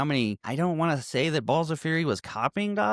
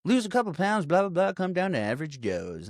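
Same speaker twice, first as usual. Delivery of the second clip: infomercial pitch; 5 semitones higher than usual. Retold or imitated. Voicing a cheesy gym commercial.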